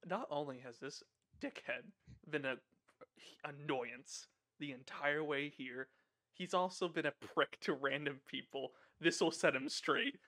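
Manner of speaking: low, soft, slow inner voice; hushed, deliberate muttering to oneself; internal monologue. Acted. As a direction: think it aloud quietly, with measured pauses. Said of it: "internal monologue is".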